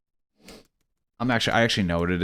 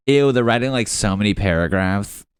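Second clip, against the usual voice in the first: mock disgusted; 5 dB louder than usual. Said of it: "just rude texting".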